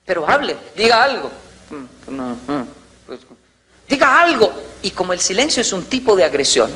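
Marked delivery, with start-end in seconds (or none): 0.1-4.5 nagging wife. Retold or imitated. Wife pushing silent husband to talk, insistent. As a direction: press him to speak.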